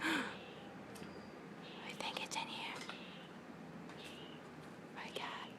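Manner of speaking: slow, soft unvoiced whisper. Real, not acted. Whispering slowly as she finds the bird's hiding spot. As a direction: breathe it out slowly. Finding where the bird hides.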